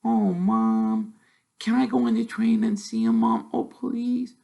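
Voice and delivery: put-on high, wheedling little girl; begging her mum to let her go; little girl pleading. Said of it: "the little girl's voice".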